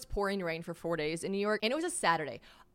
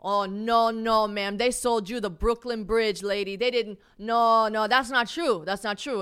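louder, insistent no-no-no from the driver; emphatic denial; 3 semitones higher, 8 dB louder, slower than usual. Retold or imitated. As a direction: shake your head hard, no way. Bert insists she was cheated.

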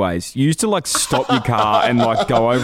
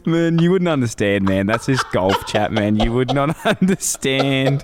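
mock indignant rant; 4 semitones higher than usual. Mock quarrel over golf chat, amid laughter.

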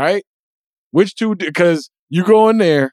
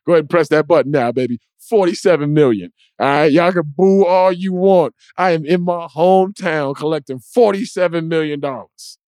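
sneering wrestling villain. Retold or imitated. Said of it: "That's how Russell moved".

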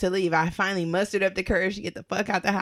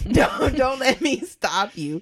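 higher, drawn-out dare; higher, slow sarcastic send-off; mock-generous retort; 5 semitones higher, 3 dB louder, slower than usual. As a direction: stretch it out sarcastically. Sarcastic retort retold in story.

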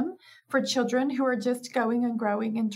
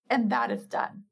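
very firm. Shown as a demonstration. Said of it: "That's not an angry voice".

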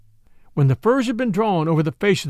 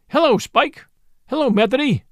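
raised, higher hello across the room; calling out a greeting; 7 semitones higher than usual. Acted. Lucy calling hello to the two men at the door, raised and high. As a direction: greet arriving friends warmly, calling out.

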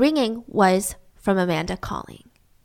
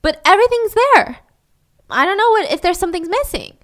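higher, bewildered retelling of a roommate's report; retold confusion; 3 semitones higher, 4 dB louder than usual. Roommate surveys her ransacked room, confused. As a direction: voice lifts in baffled disbelief. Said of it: "she's so confused".

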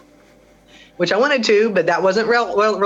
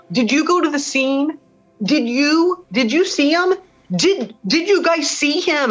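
much higher, straining, pleading yell, slowing at the end; retold desperate yell; 10 semitones higher, slower than usual. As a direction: demand an answer, voice cracking high. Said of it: "I lost it".

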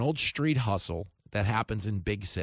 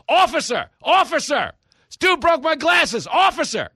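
much higher, loud frantic yelling; yelling for the police; 10 dB louder than usual. Retold or imitated. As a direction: scream for a cop like the hustler. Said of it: "will just start yelling".

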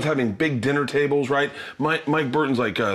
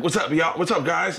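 slightly forced, higher-pitched casual greeting; trying to sound cool; 5 semitones higher than usual. Retold or imitated. Young comic greeting the audience, trying to sound cool. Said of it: "I'm trying to sound cool".

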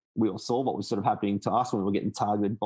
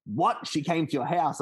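higher-pitched mock-astonished question; retold surprise; 6 semitones higher, slower than usual. Friend retelling his reaction to her visit, surprised. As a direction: act out his disbelieving double-take.

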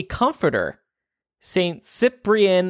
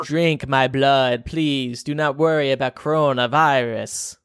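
bad vampire impression; 3 semitones lower than usual. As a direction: ham up a cheesy vampire. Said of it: "that's my bad vampire impression".

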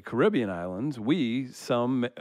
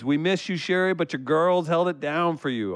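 raised, higher-pitched read-out of a fan message; emphatic, pitched-up shout-out; all-caps reading; 5 semitones higher, 3 dB louder than usual. Acted. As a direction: read it as if typed in capitals. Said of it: "all caps".

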